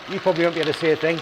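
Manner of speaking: talking with sunglasses in mouth; mumbled around something held in teeth; mouth full. Real, not acted. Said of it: "I've got my sunglasses in my mouth".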